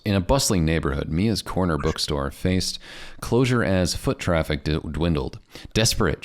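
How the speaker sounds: dramatic trailer-style announcer read. Shown as a demonstration. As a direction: boom it out like a movie trailer. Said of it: "I'll do it in my announcer voice".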